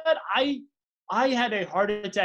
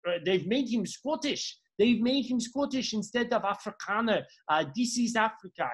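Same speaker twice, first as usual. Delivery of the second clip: mock Afrikaner accent. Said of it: "or I don't know, however they sound".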